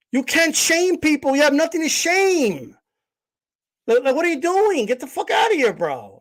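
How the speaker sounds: heated rant. Acted. Streamer voices his own rant.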